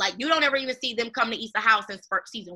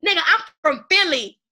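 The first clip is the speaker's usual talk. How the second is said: put-on Philly accent; 7 semitones higher, 6 dB louder than usual.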